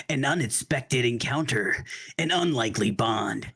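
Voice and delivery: deep dramatic trailer narration; movie trailer voice. Retold or imitated. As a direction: read it like an epic movie trailer. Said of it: "hear in that movie trailer voice".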